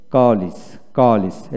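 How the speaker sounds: "কলেজ" with a short i in the second syllable, ko-lis; English "কলেজ". Shown as a demonstration. Teacher modelling it for learners, "কলেজ" as ko-lis. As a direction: drill "কলেজ" as the English word, evenly. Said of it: "এভাবে বলবেন".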